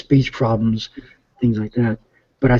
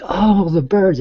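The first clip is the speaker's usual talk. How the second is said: higher "oh" of dawning understanding; as if it just clicked; sudden realization; 7 semitones higher, slower than usual. Retold or imitated. Dad retelling how he finally understood his daughter, surprised. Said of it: "I'm like".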